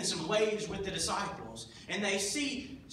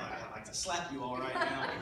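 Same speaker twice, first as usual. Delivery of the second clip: joking through laughter; 8 semitones lower, 4 dB quieter than usual. Acted. Joking Jesus line with laugh.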